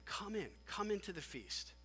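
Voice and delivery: soft, gentle plea; mild, quiet urging; entreating. Acted. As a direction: coax him in as a patient father. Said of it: "He keeps entreating him".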